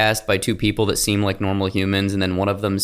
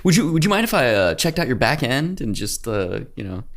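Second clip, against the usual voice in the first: mock seductive; 4 semitones higher than usual. Mock seductive business line.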